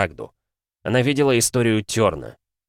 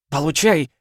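fierce battle cry; 8 semitones higher, 3 dB louder than usual. Acted. Hound strikes a blow.

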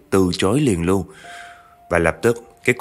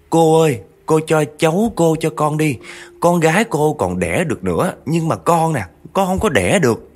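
tearful begging; 8 semitones higher than usual. Retold or imitated. Childless woman begging grandma for the child, tearful plea. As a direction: beg as if sobbing for the baby. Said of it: "Năn nỉ khóc lóc vật vã".

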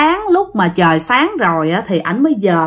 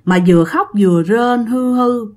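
imitated whimpering moan. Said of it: "nghe cái tiếng khóc".

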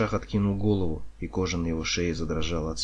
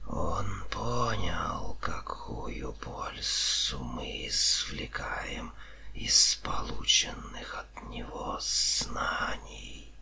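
very slow, sibilant whisper; drawn-out whispered snake voice; gloating serpent; 5 dB quieter, much slower than usual. A narrator's reading. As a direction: unspool the tale in a menacing hiss.

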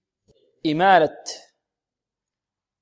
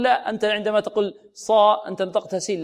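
a higher mock objection; imagined objector; 5 semitones higher than usual. Teacher voicing a student's objection, slightly higher. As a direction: voice a doubting student. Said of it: "لعل البعض يقول".

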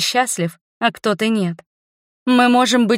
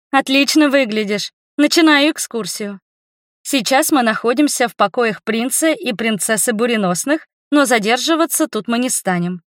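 announcer voice; 3 semitones higher than usual. Acted. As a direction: announce it like a radio host. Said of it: "Голосом диктора заговорила я". (голос диктора)

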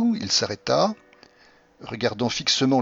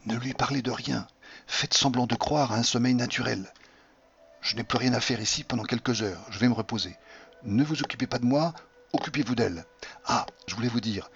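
hushed, softer, so as not to wake her; low voice; 5 dB quieter than usual. Acted. Doctor to husband beside the sleeping wife, hushed. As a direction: keep it down, the patient is waking. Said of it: "me dit-il à voix basse".

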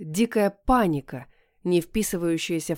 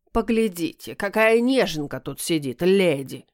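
издевательски протянул. Acted. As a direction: drag the words out to mock her. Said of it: "издевательски протянул кот". (кот насмешливо тянет слова)

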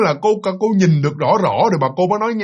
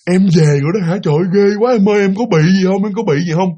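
urgent, slightly raised voice; anxious fussing; 2 semitones higher, 3 dB louder than usual. Acted. Husband greeting wife home after the ghost scare, anxious fussing. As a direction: fuss over her with worried questions.

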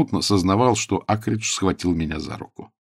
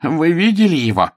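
groaned; 8 semitones higher, 5 dB louder than usual. A narrator's reading. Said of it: "простонал он".

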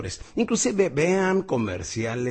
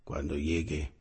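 soft, calm ad line; 10 semitones lower, 8 dB quieter, slower than usual. Retold or imitated. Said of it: "sale el señor caminando ... y dice".

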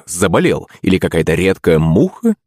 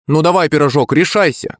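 mild taunting shout; 9 semitones higher than usual. A narrator's reading. Classmate needling a plump girl at the bar, calling out. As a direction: egg her on in a raised pitch. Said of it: "крикнул он".

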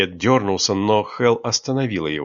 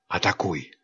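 soft breathy whisper, lower; 4 semitones lower, 6 dB quieter than usual. Acted. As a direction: whisper the command softly. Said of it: "Хел отошла и прошептала". (шёпотом, тихо)

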